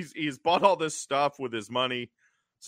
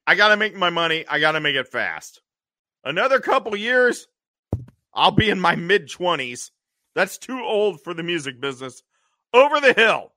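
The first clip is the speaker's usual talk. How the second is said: Louis the hippie; 4 semitones higher, 5 dB louder, faster than usual. Retold or imitated. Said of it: "So Louis like".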